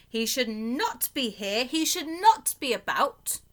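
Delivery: a fussy fish protesting in alarm; worried fish. Acted. Fish scolding the cat.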